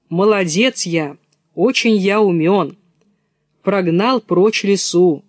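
loud, self-satisfied wolf voice; wolf bragging as he plots; boastful wolf. Acted.

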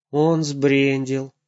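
upset. Acted. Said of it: "расстроенно сказал папа".

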